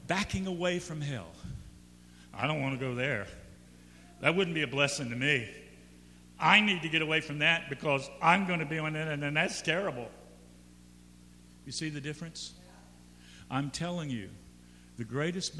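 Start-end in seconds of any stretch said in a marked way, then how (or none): 2.3-10.1 lightly voiced, lower self-centered cat; reluctant cat. Cat backs away from hell, mildly voiced reluctance. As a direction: back away grudgingly, like a wary cat. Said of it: "Cats go to heaven".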